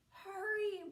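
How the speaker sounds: high loud call. Acted. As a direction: call him home in a hurry. Grandmother calls from door.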